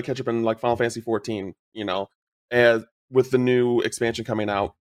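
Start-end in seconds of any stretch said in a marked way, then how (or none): none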